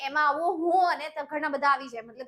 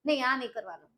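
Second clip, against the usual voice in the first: rushed, fading mock protest; hammed-up coy refusal; faster than usual. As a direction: wave off the praise in a hurry. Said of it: "અને પછી એમ કહેતા".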